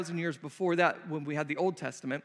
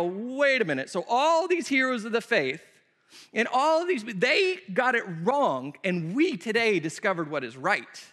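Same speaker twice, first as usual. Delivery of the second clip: incredulous disbelief; 3 semitones higher than usual. Pretend. Preacher voicing his doubt about new readings, incredulous. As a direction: sound like you can't believe it.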